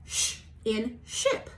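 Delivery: "Sh in ship" stretched out slowly; slow teacher phonics demo; slow phonics model. Shown as a demonstration. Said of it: "repeat after me".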